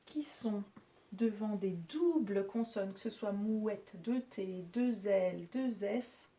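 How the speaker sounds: ordinary talk, nothing marked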